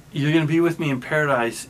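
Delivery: quick, emphatic promise; with conviction. Retold or imitated. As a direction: say it as a sure promise, pressing ahead. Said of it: "he says this with conviction".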